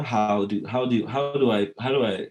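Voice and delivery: lightly put-on old-movie American English accent; formal American English accent, lightly imitated; proper American English accent. Shown as a demonstration. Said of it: "shit like that".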